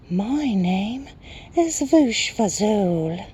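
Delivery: very high, slow whispery creature; whispering Night Hob. A narrator's reading. Night creature greeting a newcomer, high slow whisper. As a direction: stretch it out in a high airy whisper. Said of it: "whispered the Night Hob".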